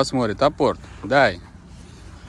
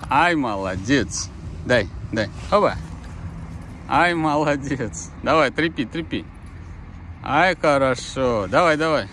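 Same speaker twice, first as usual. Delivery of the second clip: talking to a dog. Real, not acted. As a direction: cheer the dog on gently. Praising dog tugging toy.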